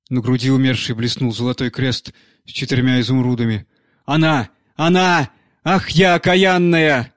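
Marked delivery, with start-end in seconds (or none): 4.0-7.1 higher and louder, slow anguished wail; a nanny moaning in horror at her deed. Acted. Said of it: "простонала старуха". (высокий, громкий, медленный стон ужаса)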